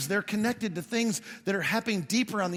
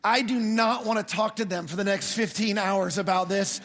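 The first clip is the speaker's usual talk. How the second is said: laughing. Retold or imitated. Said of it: "And then I thought".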